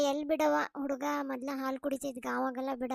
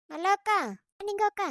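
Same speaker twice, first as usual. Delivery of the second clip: raised voice, rising call; 4 semitones higher, 4 dB louder than usual. Acted. Visitor calling the neighbour women, calling out.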